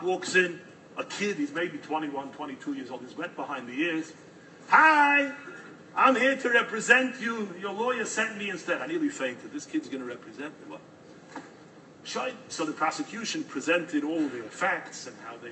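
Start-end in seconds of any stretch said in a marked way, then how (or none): 4.7-8.8 put-on eager young lawyer. Young substitute lawyer greets client. 9.5-10.8 softer, disbelieving mutter to himself; can't believe this kid is his lawyer; aghast aside. Retold or imitated.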